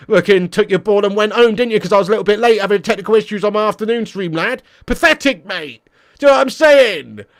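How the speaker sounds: high, loud mock tirade; ranting banter. Real, not acted. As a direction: lay into a viewer in jokey outrage. Mock rant back at a viewer.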